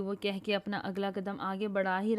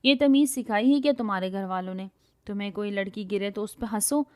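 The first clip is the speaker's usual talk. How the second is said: angry scolding; 4 dB louder than usual. Acted. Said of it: "وہ گراتی ہوئی بولی".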